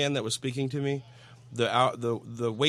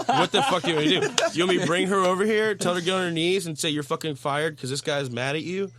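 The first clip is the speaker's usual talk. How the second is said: loud, higher-pitched exasperated outburst; losing it; 5 semitones higher, 3 dB louder than usual. Retold or imitated. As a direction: retell your own snap at full volume. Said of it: "I totally lost it in Snap".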